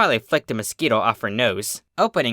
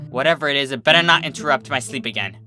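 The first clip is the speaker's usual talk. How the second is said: louder, grumbling annoyance; annoyed grunt; 4 dB louder, faster than usual. Acted. Twilight, kept awake, grumbles at the unknown noise. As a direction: grumble it into the pillow. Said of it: "Twilight grunted".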